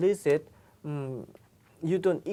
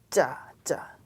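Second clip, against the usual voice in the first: whispered cha; 2 semitones lower than usual. Shown as a demonstration. Teacher whispering cha for students to imitate. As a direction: breathe cha out. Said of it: "Can you, can you imitate my".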